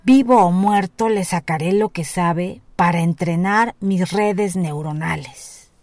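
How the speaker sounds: booming greedy giant; roaring giant voice. A narrator's reading. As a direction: roar it out like a giant. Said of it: "olfateó el aire y rugió".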